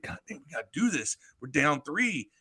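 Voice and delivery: quick, hushed mock nerves; nervous. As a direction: mutter it fast, imitating a rattled offense. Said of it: "they're all, like, nervous".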